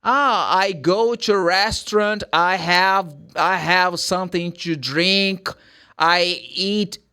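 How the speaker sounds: put-on halting English in a heavy Brazilian accent. Learner answering about the weekend, Brazilian accent. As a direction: answer slowly, word by word, in a thick Brazilian Portuguese accent. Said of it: "com esse sotaque".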